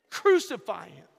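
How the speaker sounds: loud, angry crowd cry; furious mob demanding crucifixion; mob shout. Acted. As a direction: yell it for his death. Crowd condemns Jesus.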